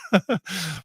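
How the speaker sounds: short real chuckle; brief amused laugh. Real, not acted. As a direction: chuckle after reading out a joke. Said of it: "I'm laughing at Phil J Weston".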